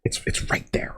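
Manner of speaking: breathy whisper, leaning in. Real, not acted. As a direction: whisper it like a secret. Pointing out a detail quietly.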